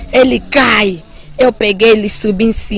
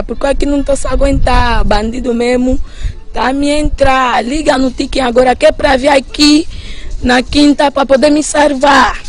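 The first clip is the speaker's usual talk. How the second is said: higher, urgent begging on the phone; panicked plea for help; 4 semitones higher than usual. Retold or imitated. Calling her sister at night, frightened and pleading. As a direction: beg your sister to come save you.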